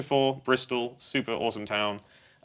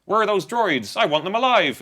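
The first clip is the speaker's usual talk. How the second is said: Darth Vader lines in a hammed-up Bristol accent, higher and louder; 8 semitones higher, 6 dB louder than usual. Interviewer jokes that Vader speaks with a Bristol accent. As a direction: play a Bristol bouncer Vader demanding droids. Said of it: "a Bristol accent".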